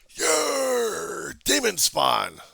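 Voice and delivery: high, loud, slow sneering heckler voice; mock heckler. Voicing a heckler who insults him, mocking voice. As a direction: jeer it like a hostile heckler.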